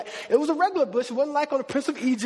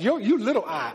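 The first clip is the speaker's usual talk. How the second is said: laughing tease. Retold or imitated. God teasing Moses' small I.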